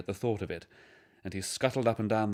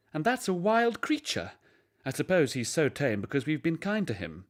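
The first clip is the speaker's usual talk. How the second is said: higher, marvelling mother; lightly voiced, much higher surprised mother; 7 semitones higher than usual. A narrator's reading. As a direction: wonder at the wild creature.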